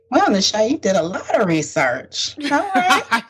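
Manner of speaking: sarcastic praise with swooping pitch; teasing sarcasm. Real, not acted. Co-host teasing her friend about all her research, sarcastic. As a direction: lay on the impressed praise, sarcastically. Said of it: "a little bit of sarcasm in there".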